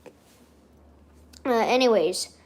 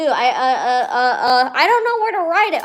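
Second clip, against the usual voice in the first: flustered panic; 3 semitones higher, 6 dB louder than usual. Real, not acted. Streamer with nowhere to note a birthday, panicking.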